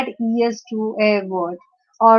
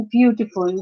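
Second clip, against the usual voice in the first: beautiful with the weight on its opening syllable; stress on first syllable. Shown as a demonstration. Teacher repeating the example, beautiful stressed on BEAU. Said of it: "the stress is on the first syllable".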